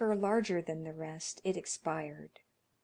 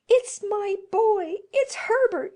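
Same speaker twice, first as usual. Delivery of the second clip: frantic cry; 13 semitones higher, 10 dB louder than usual. Acted. Mother crying out for her returned son, frantic. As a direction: cry out, straining toward the door. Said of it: "she cried".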